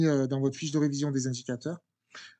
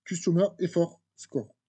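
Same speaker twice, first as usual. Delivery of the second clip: slow English term with a heavy French accent. Real, not acted. Teacher reading English terms to students, slow French-accented English. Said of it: "Excusez-moi pour mon accent, anglais qui n'est pas bon".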